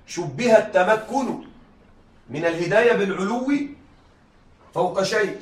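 شبه التمكن spelled out slowly, word by word; slow dictation. Shown as a demonstration. Teacher repeating the rule slowly for students to write.

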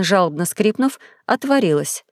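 usual speaking voice

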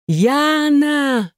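high desperate roar of her name. A narrator's reading. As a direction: bellow her name in panic. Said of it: "взревел он не своим голосом". (крик не своим голосом)

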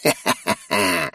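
quiet eerie witch cackle; low, soft cackle like a witch; creepy witch laugh. Acted. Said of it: "Такой жуткий смех был только у ведьм". (тихий жуткий ведьминский смех)

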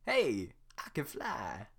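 very slow, amazed Donkey. Acted. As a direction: marvel at flying.

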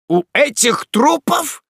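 startled, high, drawn-out exclamation; frightened cry. A narrator's reading. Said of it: "вскричал Спиагудри, вздрогнув от испуга". (испуганный вскрик)

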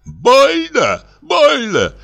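squealing in pain. A narrator's reading. People squeal as Salyutov shakes their hands, piercing squeal. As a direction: squeal as the strongman crushes your hand. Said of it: "Мужчины и женщины визжат".

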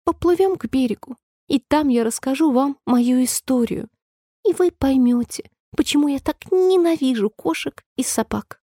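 a shaken little mouse, barely recovered; trembling mouse. A narrator's reading. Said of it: "Чуть слышно, дрожащим голосом мышь сказала". (дрожащий, тихий голос мышки, чуть выше)

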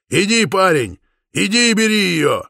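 high, loud egging-on; rally him loudly; cheering shout. A narrator's reading. Brother urges the suitor on, shouting loudly. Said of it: "закричал Ян Паулюс".

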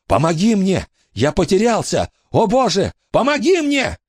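high anguished cry; desperate plea. A narrator's reading. The lost ghost begging God for help. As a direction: beg for help in terror.

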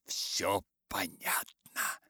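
slow devilish hiss; satanic voice. Acted. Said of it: "стараясь кричать тоже сатанинским голосом".

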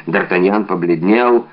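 plain reading voice

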